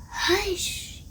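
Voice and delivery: soft whisper to calm the storm; hushing whisper. A narrator's reading. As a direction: breathe it gently. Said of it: "he said".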